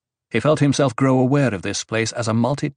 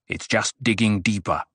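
cautioning. A narrator's reading. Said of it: "Paul cautioned".

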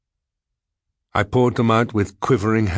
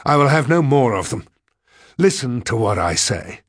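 raised, forceful ultimatum; outraged cry; 6 semitones higher, 4 dB louder than usual. A narrator's reading. Diarist telling her the tricks are over, outraged cry. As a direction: lay down the law angrily. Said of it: "I cried".

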